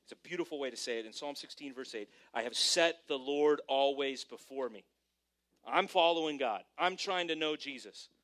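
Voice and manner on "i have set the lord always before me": slow, lifted scripture read. Real, not acted. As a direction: read the verse slowly and louder. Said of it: "this is how I say it".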